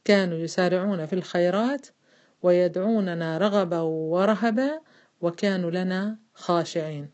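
slow, phrase-by-phrase chanted recitation for the class to repeat; تلاوة جماعية بطيئة; recite along together. Shown as a demonstration. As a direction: lead the women through the verse, stretching رغبا ورهبا. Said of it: "معي أخواتي؟".

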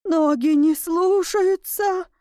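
high, slow, frightened squeak. A narrator's reading. Tutor frozen before the werewolf, squeaking in fear. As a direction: whine it helplessly up high. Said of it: "пропищал гувернёр".

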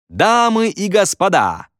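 high, slow, drawn-out showman call; host's announcement. Acted. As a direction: call the room to attention. Ведущий выходит на сцену. (торжественное объявление ведущего)

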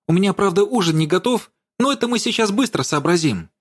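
high, hurried hostess chatter. A narrator's reading. Dasha fussing over her guest, chattering. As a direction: rattle it off eagerly. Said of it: "тараторила Даша".

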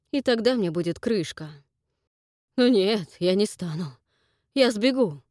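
loud, stubborn and dark; grim defiance. Acted. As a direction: refuse to stay, grimly. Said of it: "и угрюмо прибавил".

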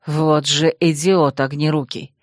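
low, slow angry curse; swearing. Acted. Rival cursing the fire mage for the wound, low slow curse. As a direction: curse the clumsy fox under your breath. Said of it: "ругнулся Верпант".

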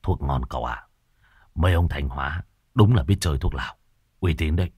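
a stoned servant coming round; Hải's low voice. Acted. Hải, dazed, low voice. (giọng trầm lừ đừ vừa tỉnh phê)

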